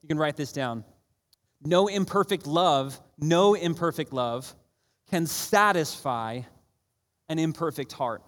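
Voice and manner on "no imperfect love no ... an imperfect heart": very slow NO IMPERFECT LOVE, repeated; slow dictation. Real, not acted. Preacher gives listeners a line to write down, slow dictation. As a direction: space out CAN SATISFY, pausing before AN IMPERFECT HEART.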